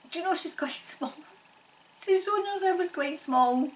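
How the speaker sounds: high, laughing through the words; tickled, fighting off giggles; amused high chatter; giggling. Real, not acted. Laughing about the tiny spirit lady.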